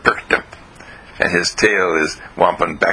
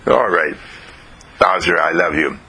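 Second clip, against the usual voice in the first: dutiful, lifeless "I love you"; flat, without love; 2 semitones lower than usual. Acted. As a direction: say it like a chore, no feeling. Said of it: "you have to say that with love".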